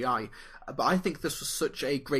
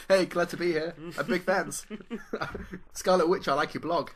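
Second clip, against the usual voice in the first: put-on kid voice; 3 semitones higher than usual. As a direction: bounce it like a teen fan. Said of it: "continuing the teen Holland bit".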